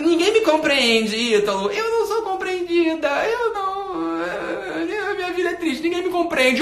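high, drawn-out singsong wailing; mock self-pity. Follower lamenting to Ítalo that nobody understands, mock self-pity.

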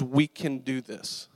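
slow, steady fatherly encouragement; slowly and simply steady the boy; calm reassurance. Retold or imitated. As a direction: imitate a reassuring dad, unhurried. Dad kneels to reassure him.

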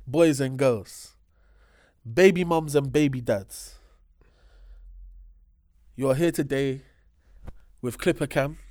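slow, loud ringmaster-style intro; grand entrance announcement. Acted. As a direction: stretch each phrase like an arena announcer. Show host opening intro.

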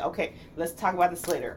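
low, calm deferral; mock-calm restraint; controlled de-escalation. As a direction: put it off evenly, keeping temper down. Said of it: "I'll try to implement things to make sure".

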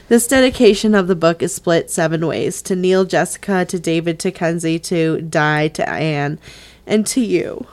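low, even read-aloud voice; dedication reading. Acted. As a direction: read it out measured, emotion breaking through at the close.

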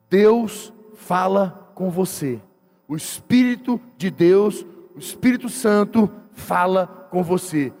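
slow, fervent preacher's cadence with long falling phrase ends; preaching over music. Acted. Pastor exhorting the congregation over worship music, fervent.

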